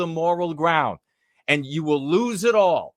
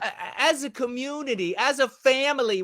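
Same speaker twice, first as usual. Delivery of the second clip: mocking soft police chief; 8 semitones higher, 3 dB quieter than usual.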